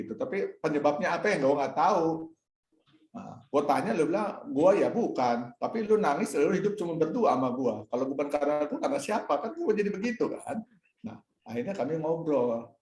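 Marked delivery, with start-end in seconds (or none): 4.5-10.6 retold, louder and higher, pleading and a little annoyed; a husband half-annoyed, half-pleading with his wife; exasperated plea. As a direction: argue it back the way he said it that night. Retold quote to crying wife.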